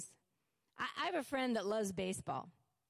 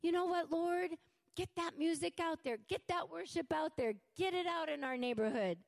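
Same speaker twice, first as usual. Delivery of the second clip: excited shout to God; 5 semitones higher than usual. Retold or imitated. Singing out windows to neighbors, joyful raised call. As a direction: cry out gladly to the Lord. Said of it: "I just".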